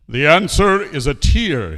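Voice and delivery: loud, high, slow answer; confident king. Acted. King answers second riddle, loud and confident. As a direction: announce it like a sure king.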